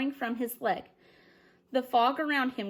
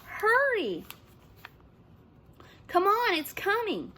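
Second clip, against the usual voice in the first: screaming at Sid; 10 semitones higher than usual. A narrator's reading. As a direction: scream him out of the water. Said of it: "They all screamed at Sid".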